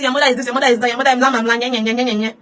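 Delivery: childish mocking of insults, trailing into nye nye; mocking quote. Mocking abusers who shout at her, taunting nye nye. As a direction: parody abusers' chant, fading to nye nye. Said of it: "Stop coming here and be shouting".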